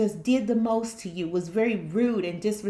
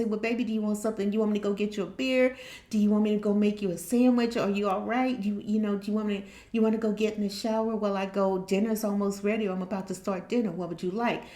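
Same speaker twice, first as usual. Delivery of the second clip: fast, eager, fussing wife; caring wife; faster than usual. Retold or imitated. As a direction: rush out kind offers. Caring wife offering help quickly.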